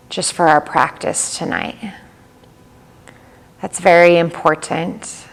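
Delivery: calm yoga nidra guide, long pauses between phrases; even, unhurried delivery with little pitch movement; guided meditation. Real, not acted. Leads yoga nidra practice.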